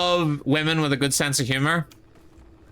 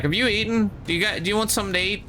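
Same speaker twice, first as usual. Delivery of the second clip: supportive mum; 6 semitones higher, faster than usual. Retold or imitated. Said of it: "supportive person ... she's just like".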